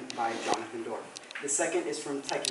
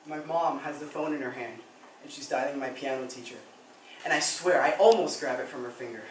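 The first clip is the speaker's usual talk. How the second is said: subdued dramatic monologue. Acted. Student confessing missed coach's funeral, subdued monologue. Performs a rueful first monologue.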